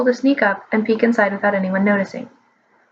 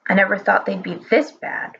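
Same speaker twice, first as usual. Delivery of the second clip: wailing; 3 semitones lower than usual. Acted. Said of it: "Old Fat wailed".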